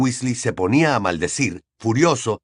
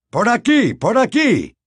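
higher, louder breathless call; panting; 11 semitones higher, 5 dB louder than usual. Acted. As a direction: gasp it while running.

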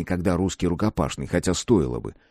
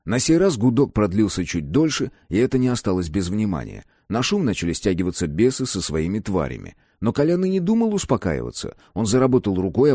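ordinary talk

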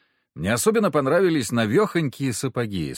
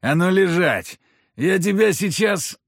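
put-on higher, louder drunken bully; lightly voiced drunk lout; drunk threat; 8 semitones higher, 5 dB louder than usual. A narrator's reading. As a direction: bark it at the fallen girl.

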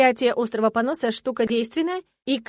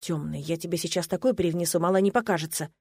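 hissed threat; 4 semitones lower than usual. Acted. Paladin hissing at his clingy fiancée, low threat. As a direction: hiss it through clenched teeth, threatening. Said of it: "прошипел Аксель".

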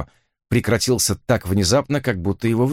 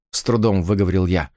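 normal talking voice

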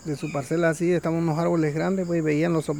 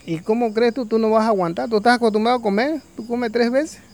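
scolding vulture; 5 semitones higher, 4 dB louder than usual. Acted.

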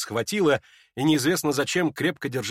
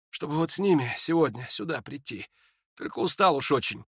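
put-on faint dying young man; 4 semitones higher than usual. Ippolit tells Lizaveta of his death, faint and weary. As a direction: speak like a sick man short of strength.

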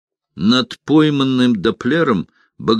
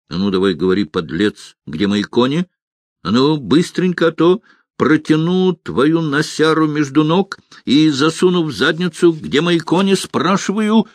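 a halfling losing his temper, demanding his horses; angry interrogation; 6 semitones higher than usual. Acted. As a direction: threaten the thief, rising in anger.

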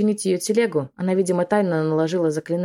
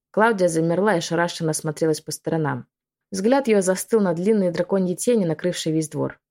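ordinary delivery, nothing marked

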